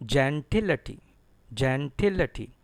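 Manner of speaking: gentility as jen-TIL-uh-tee; careful gentility, stressed TIL, schwa before "tee"; "uh-tee" ending. Shown as a demonstration. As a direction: weaken the vowel after TIL in gentility. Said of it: "It is pronounced as a T".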